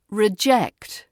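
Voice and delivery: riJECT, second syllable stressed. Shown as a demonstration. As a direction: hit JECT in "reject", drawn out. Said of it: "As a verb".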